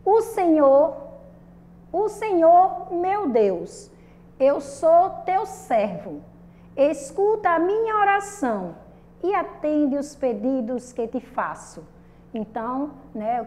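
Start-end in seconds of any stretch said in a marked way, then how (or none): 0.0-11.8 slow, measured scripture reading; reading the day's message. Real, not acted. Teacher reading the day's Bible message to pupils, slow prayerful reading. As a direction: read the prayer out phrase by phrase, with pauses. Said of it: "vamos lá ler a mensagem do dia".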